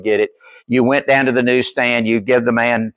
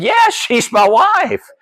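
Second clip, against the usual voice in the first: laughing; 11 semitones higher, much slower than usual. Retold or imitated. Retelling pastor's amused reply.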